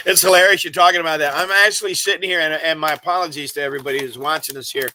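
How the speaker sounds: talking while chewing candy; mouth full. Real, not acted. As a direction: speak through a mouthful of candy. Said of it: "I'm chewing down on M and M's".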